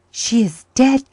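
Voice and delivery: high, loud, slow gasp of dread. Acted. Boy gasping to his uncle in fear. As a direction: choke out the words. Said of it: "gasped Jims".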